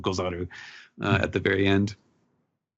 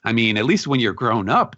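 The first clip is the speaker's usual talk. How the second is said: mildly indignant, higher-pitched sputter; a touch of incredulous protest; incensed; 4 semitones higher than usual. Acted. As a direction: act out mock outrage, pitch jumping up. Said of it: "Luffy is incensed".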